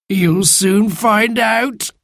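high, slow creature voice; laughing Sand Fairy. A narrator's reading. Sand Fairy teasing the children, laughing. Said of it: "laughed the Sand Fairy".

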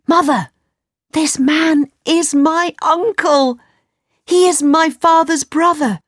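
put-on high, eager boy bursting with news; excited boy. Aladdin presents his uncle to his mother, excited boy. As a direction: announce it proudly, pitched high.

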